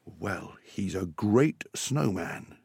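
slow, measured, understated pride; mildly proud dad. Acted. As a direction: let the praise out slowly. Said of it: "Dad said proudly too".

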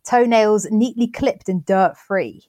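slow, deliberate reading from the book; slow quoted reading. Shown as a demonstration. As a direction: read the quote out slowly. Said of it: "I'm quoting from the book now".

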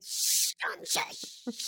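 loud unvoiced shushing; urgent shush. Informant hushing John as someone approaches. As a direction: hush your partner in a panic. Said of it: "someone's coming".

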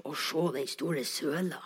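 hushed, breathy whisper of wonder; awed whisper. Retold or imitated. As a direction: whisper it to friends in amazement. Awed children at huge puddle. (ærbødig hvisking)

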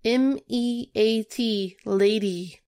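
slow, letter-by-letter spelling; spelled out slowly. Shown as a demonstration. Podcaster spells out the Meat Lady's name, slow and deliberate. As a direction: spell it out one letter at a time.

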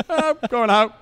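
high, loud mock shout; line judge shout. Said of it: "just shouting".

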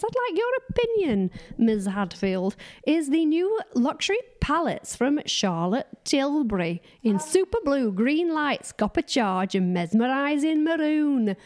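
a playful put-on American accent, drawn out at the end; mock American accent. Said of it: "I don't know if this accent's gonna be acceptable".

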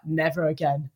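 low, done-for mock resolve; exhausted vow. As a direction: drop it low, as if utterly finished. Retold exhausted vow at the end.

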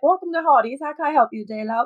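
lightly hammed-up British drive-thru greeting; bad British accent. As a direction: put on a deliberately bad, slightly lilting British accent. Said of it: "a really bad British accent".

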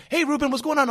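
high, loud friendly call; mimicking a chummy hello; cheerful greeting. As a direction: hail him like an old friend. Another stranger greets him.

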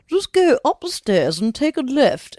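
put-on old woman. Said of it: "And she goes".

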